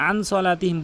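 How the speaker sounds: "আন সলাতিহিম" with plain short n; common mispronunciation. Shown as a demonstration. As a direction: run "আন" straight into "সলাতিহিম". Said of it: "আন সলাতিহিম বলে". (গুন্নাহ ছাড়া ভুল উচ্চারণ)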